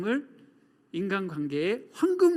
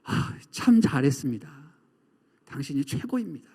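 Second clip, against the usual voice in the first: lower-pitched, heartfelt compliment; sincere praise; 4 semitones lower than usual. Acted. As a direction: praise them kindly and unhurried. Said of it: "이렇게 얘기해야 되는 거죠".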